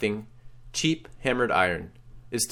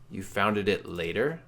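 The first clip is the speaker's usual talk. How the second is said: confused question; 3 dB quieter, slower than usual. Acted. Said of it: "you reply confused".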